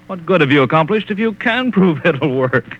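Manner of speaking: mocking laugh. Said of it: "Are you laughing at me".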